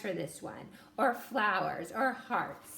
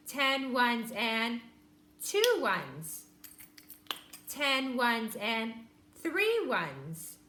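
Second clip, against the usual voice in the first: slow counting; much slower than usual. Shown as a demonstration. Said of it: "that's how we did it".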